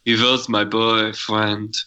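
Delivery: lightly put-on stage character, drawn out; slow, hammed-up show-tune line; imitating a stage number. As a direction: stretch it out slowly like a theatrical performer. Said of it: "she performs, um, He Was My Boyfriend".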